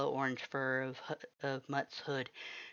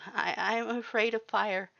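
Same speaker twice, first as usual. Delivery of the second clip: ashamed mumble; 8 semitones higher, 4 dB louder than usual. A narrator's reading. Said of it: "you mumbled".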